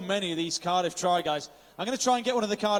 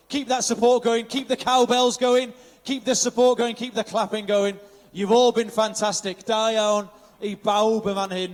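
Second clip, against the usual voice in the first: cheerleading announcer call; rousing crowd call; 3 semitones higher, 6 dB louder than usual. Real, not acted. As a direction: pump up the spectators over the PA.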